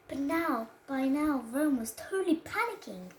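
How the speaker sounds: put-on careful child storyteller reading aloud; reading to a toddler. Child reads story to camera.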